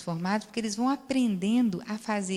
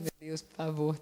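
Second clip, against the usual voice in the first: soft, lower pleading prayer; murmured prayer; 5 semitones lower, 7 dB quieter than usual. Retold or imitated. Therapist retells praying for her patient, softly. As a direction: pray under her breath. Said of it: "Fiquei lá eu rezando".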